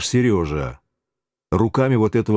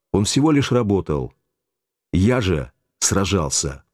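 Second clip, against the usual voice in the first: ordinary delivery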